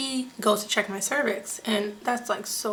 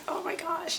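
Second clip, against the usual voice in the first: retold pain; 8 semitones higher, 7 dB quieter than usual. Pained reaction to every bump, retold.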